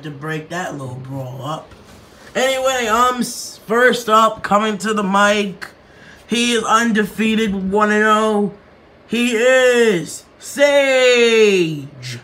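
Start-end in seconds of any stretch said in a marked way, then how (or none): 6.3-12.2 hugely stretched, shouted fighter intro; announcing the next fighter at the press conference; ring announcer. Acted. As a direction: hold every word out for the crowd.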